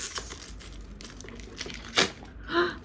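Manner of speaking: long breathy gasp; awed gasp. Real, not acted. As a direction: gasp in disbelief. Awed while opening the box.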